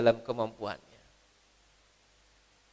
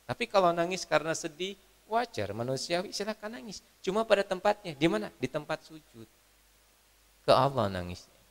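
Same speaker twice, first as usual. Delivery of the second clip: usual speaking voice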